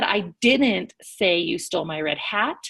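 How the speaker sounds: "didn't" punched in mild acted anger; angry stress on DIDN'T. Teacher shows angry tone through italics, stress on "didn't". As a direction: lean crossly on "didn't", rising at the end.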